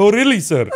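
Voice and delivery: put-on Indian accent. Retelling replying to a cab driver in his accent: put-on indian accent. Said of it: "in his accent".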